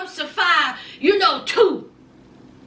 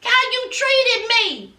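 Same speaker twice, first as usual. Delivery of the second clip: a touch of a higher indignant voice; mock-stern pushback, raised; imitating Sean; 4 semitones higher than usual. Sean refuses Destiny money, higher mock-indignant voice. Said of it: "And so Sean said".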